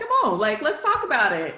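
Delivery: easygoing invitation. Retold or imitated. Defending her thesis to the board, relaxed and unbothered. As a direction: come on, open and unbothered. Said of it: "not defensive, but just kinda like".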